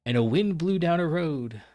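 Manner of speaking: measured storyteller's read with drawn-out phrases; story narration. Acted. Player reading chapter one aloud to viewers, epic narration. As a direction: read it like an epic fantasy prologue.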